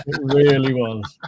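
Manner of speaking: slow, through a laugh. Real, not acted. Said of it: "That's such a nervous laugh".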